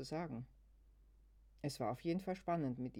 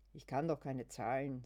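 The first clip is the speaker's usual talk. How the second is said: gruff. Acted. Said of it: "sagt sie unwirsch".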